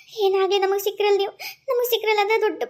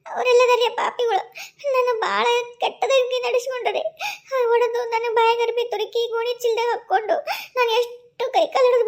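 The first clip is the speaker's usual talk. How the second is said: crying. Acted. Wife tells husband of torture.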